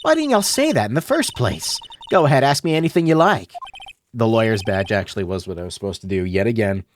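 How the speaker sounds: put-on southern accent. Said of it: "southern accent this whole stream".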